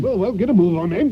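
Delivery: impatient shout. Acted. Impatient master hurries servant.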